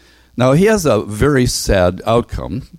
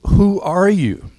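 questioning delegation; 9 semitones higher than usual. Acted.

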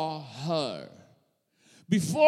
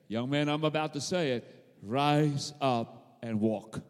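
raising command; 6 semitones lower than usual. Acted. Jesus raising the dead man.

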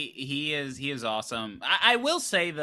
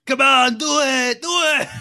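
lightly hammed high dare, louder; mock taunting heroine; 6 semitones higher, 6 dB louder than usual. Joins imitating the taunting heroine.

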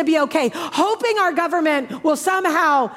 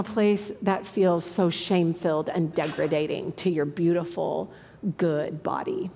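hushed whisper; 10 semitones lower, 7 dB quieter than usual. Real, not acted. Preacher to congregation on shame, whispered softly. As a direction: drop to a breathless whisper.

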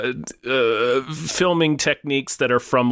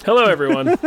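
grand entrance greeting; 7 semitones higher, 4 dB louder, faster than usual. Pretend. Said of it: "When I enter a room".

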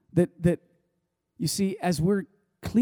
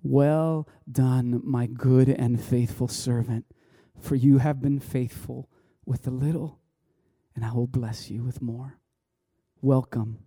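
lower, gentle voice of God reciting the verse; scripture quoted; 3 semitones lower than usual. Retold or imitated. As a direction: speak it slow and tender, like a blessing. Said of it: "I'm literally hearing that scripture".

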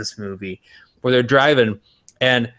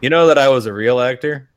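Burt Reynolds. Retold or imitated. Imagining the veteran actor stuck on a remake set, grumbling impression. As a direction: mutter like a fed-up veteran star. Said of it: "Burt Reynolds probably spent ... being like".

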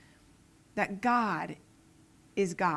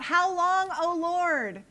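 crying out; slower than usual. Acted. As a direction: cry out to the Lord in distress. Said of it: "So David cries out".

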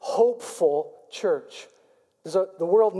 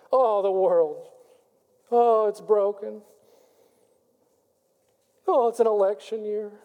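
mock distraught Christian. Preacher mimics gloomy Christians, a hint of mock lament. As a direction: sigh out a half-hearted mock despair. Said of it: "many Christians live like that".

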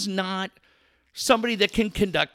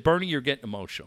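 casual; 4 semitones lower, 4 dB quieter, much faster than usual. Retold or imitated. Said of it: "Eric Grubman very casually said".

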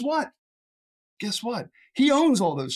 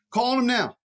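urgent call; 5 semitones higher, 4 dB louder than usual. Real, not acted. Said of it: "preacher urging the congregation".

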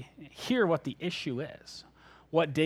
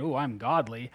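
lightly put-on boast, pitched lower; a touch of mock holier-than-thou; mock self-righteous; 6 semitones lower than usual. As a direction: play at sounding proud of yourself. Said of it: "it doesn't sound very humble".

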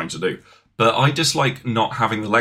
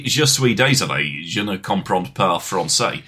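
careful, slower try at a French accent; attempted French accent; 3 semitones lower than usual. Shown as a demonstration. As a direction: put on a proper French accent, self-consciously. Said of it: "that sounds like dog".

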